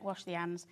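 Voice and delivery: "Wash the hands" with no H, said "ands"; dropped H. Shown as a demonstration. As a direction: drop the H in "hands" the Yorkshire way. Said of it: "It's just dropping H's".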